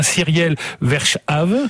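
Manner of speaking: "Cyriel Verschave" said slowly with French sounds; careful, Frenchified "Cyriel Verschave"; French-style pronunciation. Shown as a demonstration. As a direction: pronounce the Flemish name "Cyriel Verschave" as a French speaker would. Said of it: "je vais le prononcer de façon un peu, euh, à la française".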